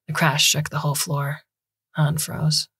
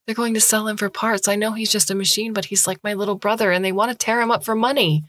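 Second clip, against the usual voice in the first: put-on higher, desperate young woman begging for help; pleading student; 5 semitones higher than usual. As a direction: beg the doctor, voice rising. Han pleading for James.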